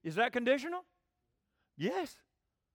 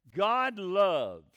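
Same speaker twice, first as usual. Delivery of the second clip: loud, weighty "God loves"; emphatic declaration; 7 dB louder than usual. Real, not acted. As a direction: land it hard like a verdict.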